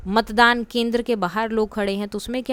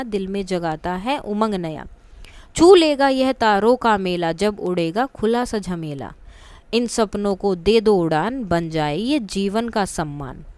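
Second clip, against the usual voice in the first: slow, measured verse reading, lines falling at the end; poem recitation. Acted. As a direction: recite it line by line, lingering on words. Reads out the poem. (कविता का धीमा पाठ)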